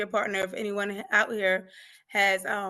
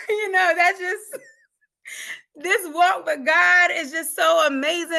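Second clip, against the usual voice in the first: laughing through tears; 6 semitones higher, 6 dB louder, slower than usual. Real, not acted. Tearful laughing testimony.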